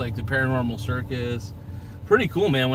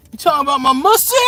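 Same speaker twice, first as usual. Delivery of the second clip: mock tough-guy challenge; 12 semitones higher, 6 dB louder, faster than usual. Same line, word swapped.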